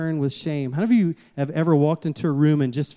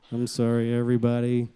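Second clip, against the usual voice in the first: low, sheepish child's apology, acted out; mock shamefaced apology; 5 semitones lower than usual. Shamed child apologising to parents' guests, sheepish and low. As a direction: play a kid owning up, voice dropped.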